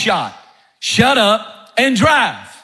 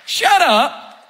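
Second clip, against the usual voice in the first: barking captain; 2 semitones higher than usual. Retold or imitated. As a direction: snap the orders like a captain under fire. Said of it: "the answer of the captain is a classic".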